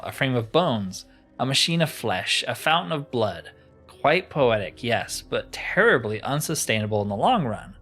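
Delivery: mildly grandiose storytelling; a touch of theatrical disdain; lightly voiced disdainful enchanter. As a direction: play a superior, ancient sorcerer, understated. Voices crystal enchanter in game.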